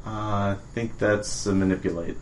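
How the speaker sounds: soft hushed aside; stage whisper. Acted. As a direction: hush it to the other. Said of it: "stage whisper then".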